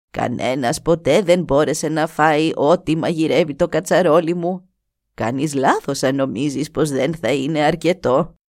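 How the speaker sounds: χαμηλότερη, σοφή φωνή γριάς; καλωσόρισε τον ξένο σαν γιαγιά; γριά γυναίκα. Acted. Η γριά εξηγεί. (η γριά καλεί τον νεαρό στη σκηνή της, χαμηλή φωνή γριάς)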